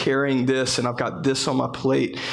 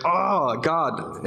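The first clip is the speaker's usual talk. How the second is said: mildly exasperated, raised pitch; a touch of mock exasperation; retold frustration; 4 semitones higher than usual. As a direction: act out a drawn "oh" of frustration. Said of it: "getting frustrated".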